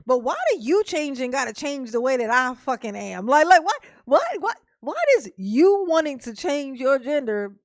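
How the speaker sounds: heated rant. Real, not acted. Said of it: "Mama had to rant a little bit".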